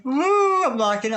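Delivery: high, loud thrilled woo; excited whoop. Real, not acted. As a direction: cheer for the good card. Thinks she drew a good card.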